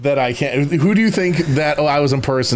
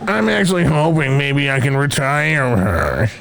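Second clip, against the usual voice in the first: gentle voice; 2 semitones lower, slower than usual. Acted. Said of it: "Those are all appropriate voices".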